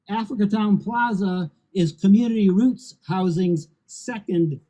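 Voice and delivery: measured podium reading with deliberate pauses; formal prepared speech. Real, not acted. Housing executive reading prepared remarks on the new plaza, formal speech. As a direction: deliver it in weighted phrases to a crowd.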